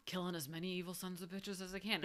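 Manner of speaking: just toss "as I can" off quietly; casual, unemphatic line; low-key, throwaway. Retold or imitated. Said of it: "it's more of kind of like a".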